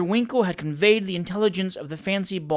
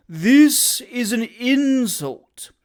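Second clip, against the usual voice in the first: seething; 7 semitones higher, 6 dB louder, much slower than usual. Acted. Tupman furious.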